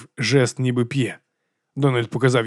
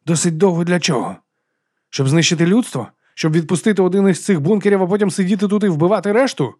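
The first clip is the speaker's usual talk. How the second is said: rising, louder accusing questions; angry demand; 6 semitones higher, 4 dB louder than usual. Acted. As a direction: push him hard with each question. Donald confronts Turman angrily. (розлючений, дедалі гучніший допит)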